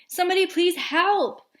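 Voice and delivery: high, loud mock cry for help; girl on swing panicking at a dog; scream. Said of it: "she screamed".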